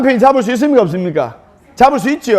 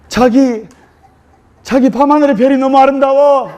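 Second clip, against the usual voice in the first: Seoul bride; 5 semitones higher than usual. Retold or imitated. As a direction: gush over the stars like a lovestruck bride. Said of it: "서울 신부가 서울 신랑에게".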